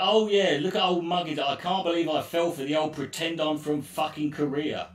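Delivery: mock yourself for falling for it; self-mocking sarcasm. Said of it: "and I'm like".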